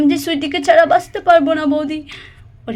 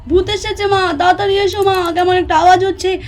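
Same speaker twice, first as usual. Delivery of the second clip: scared call for mum; 5 semitones higher than usual. Acted. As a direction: cry out for mum, scared of a ghost. Child calls mother about ghost.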